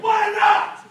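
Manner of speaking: high incredulous question; acted-out disbelief; baffled. Young man's baffled question, retold.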